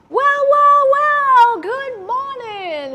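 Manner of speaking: loud hammed-up redneck, slowed on good morning; booming redneck voice. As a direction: boom it out like a cocky country boy. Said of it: "big, booming redneck voice".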